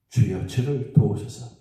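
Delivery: low, slow, restrained plea; the mother pleads again, slow, low and restrained; holding back feelings. Shown as a demonstration. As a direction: swallow your pride and ask humbly. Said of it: "자기 마음을 누르고".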